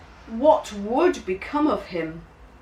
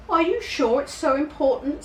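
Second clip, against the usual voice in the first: put-on nervous child; 10 semitones higher, faster than usual. A narrator's reading. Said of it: "said James".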